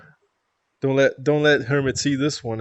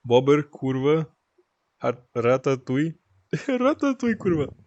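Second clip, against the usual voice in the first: put-on playful Polish accent with rolled R; mock Polish meme voice, breaking into a laugh; Polish meme imitation; 3 semitones higher than usual. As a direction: quote a Polish meme in Polish pronunciation. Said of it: "Polska meme I know is".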